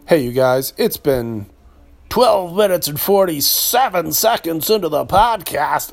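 lightly voiced strip club DJ. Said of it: "I might not do that voice every time I do a time check".

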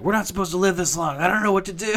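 high, fast panicky cartoon voice; frantic Meeseeks. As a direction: squeal it out like a Meeseeks in an existential crisis. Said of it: "the picture of the Meeseeks".

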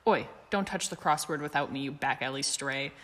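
warning through a mouthful; mouth full. Acted. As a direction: talk round a bite of scone. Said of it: "Sirius warned around a mouthful of scone".

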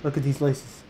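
monotone sneaker review, little movement in pitch; monotone reviewer. Retold or imitated. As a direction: deliver shoe praise in a dull monotone. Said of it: "he just talks so monotone".

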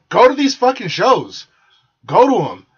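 fed-up rallying call; emphatic shout. Real, not acted. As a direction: push it at the crowd. Ranting plea to audience.

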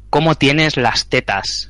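slow, heavy-breathing creepy caller; creepy caller quote. Retold or imitated. Retelling the phone caller's creepy question, slowly. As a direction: drag it out like a pervy prank caller. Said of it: "Y me dijeron".

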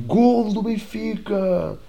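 high stretched-out goal cry; mock goal cheer. Imitating fan celebrating goal.

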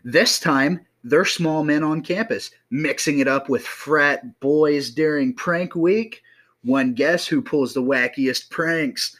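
put-on old-time radio announcer voice. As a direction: read it like a vintage radio host. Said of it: "Why are you talking like you're an old radio host?".

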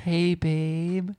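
mock a partner's coaxing call; high-pitched partner imitation. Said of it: "make my voice go that high".

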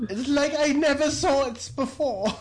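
Chicago accent, lightly put on; fake Chicago accent. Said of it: "she's doing her fake Chicago accent".

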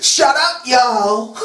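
mock Southern shout-down. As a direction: scold them in a fake Southern twang. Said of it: "Oh, drawl".

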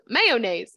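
quoted "Mayonnaise" with a clear middle oh; imitated pronunciation. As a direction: copy his three-syllable "Mayonnaise", punched. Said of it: "So then he says".

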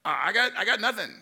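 high, loud, exasperated wail; widow's loud lament. Retold or imitated. Widow tells the prophet she has nothing, loud and exasperated. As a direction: throw up your hands and cry out you have nothing. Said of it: "She goes".

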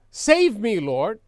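loud burst falling away on the last word; shouted plea. Acted. Preacher re-enacts Peter crying out as he sinks, shouted. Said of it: "He just shouted".

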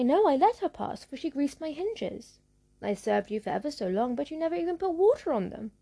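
a lightly voiced aggrieved gate. Gate answers the witch.

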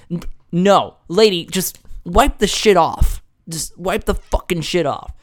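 mock-impatient rebuke; exasperated retort. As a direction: snap back at the fussy customer, drawn out. Acted retort to the customer.

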